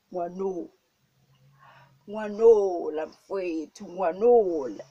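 hammed-up exclamation with loud, drawn-out peaks; acted admiring exclamation. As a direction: act out an impressed passer-by exclaiming. Acts out onlooker's admiring exclamation.

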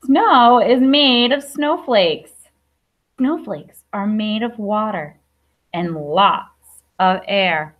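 slow, careful read-aloud of a picture book; reading to children. Acted. Teacher reading a snow book to her class, slow and clear. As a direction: read each line slowly for little listeners.

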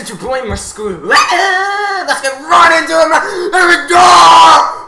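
YouTuber intro voice. Pretend.

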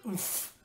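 mild mock grunt of impact; yelled oof. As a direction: let out a short oof, as if butted. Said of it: "yelled the word".

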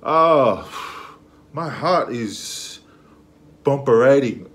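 loud, slow and drawn out; overwhelmed. Real, not acted. After the verse, loud, drawn-out swooning. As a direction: gush like your heart's racing.

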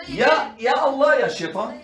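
exaggerated wail of excuse-making; mock blaming. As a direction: blame the devil with theatrical exasperation. Mocks people blaming anyone but themselves.

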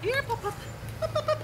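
calling a puppy. Real, not acted.

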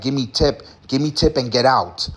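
a hint of a stern masseur in broken English; stern demand. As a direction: lightly imitate him demanding a tip. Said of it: "demands sternly for tip".

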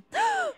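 high startled gasp; sharp gasp. Real, not acted. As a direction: gasp at the fright. Sudden scare. (sussulto improvviso)

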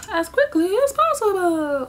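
high, hurried stage whisper; mock whisper. Repeating herself to viewers in a playful frantic whisper. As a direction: hiss it out in a playful frantic rush.

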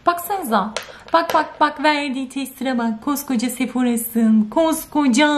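high, indignant rant at the testers. Real, not acted. Vlogger ranting to viewers about the tester, indignant and high.

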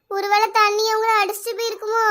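frightened, tearful worry; crying in fear. Acted. Girl alone in floodwater fearing her aunt drowned, crying. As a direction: fear breaking into tears. Trapped child fears for aunt.

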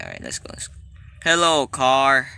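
hushed whisper. Real, not acted. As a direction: whisper so Granny can't hear. Whispering while hiding.

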